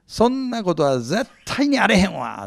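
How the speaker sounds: emphatic Osaka-dialect denial; playful Osaka accent, firm refusal. Retold or imitated. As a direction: say it like a Kansai local brushing it off. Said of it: "きっと大阪弁でしょうね".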